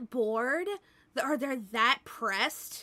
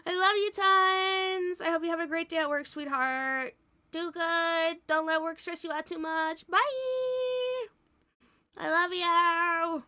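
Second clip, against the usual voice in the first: tender goodbye; 6 semitones higher than usual. Real, not acted. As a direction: send him off gently. Saying goodbye to partner.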